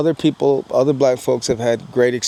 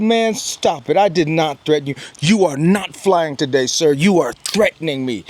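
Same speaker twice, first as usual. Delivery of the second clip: heated protest; 3 semitones higher than usual. Retold or imitated. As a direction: push back hard against the accusation. Heated retold argument at counter.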